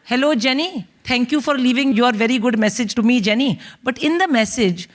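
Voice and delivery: put-on bossy mum with a thick Indian accent, pitch climbing; vengeful Indian mother. Mother dictating daughter's revenge phone call, building to gloating. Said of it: "she's like".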